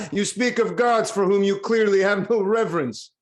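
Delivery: mock him while still laughing; king laughing off the herald's claim; laughing scorn. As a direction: speak it through a scornful laugh. King mocks herald's piety.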